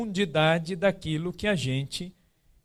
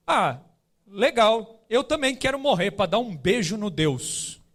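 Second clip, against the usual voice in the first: imitating a child blurting it out; loud child; 3 semitones higher, slower than usual. Son blurting out at a wake, imitated loud child. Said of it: "ele solta lá bem alto".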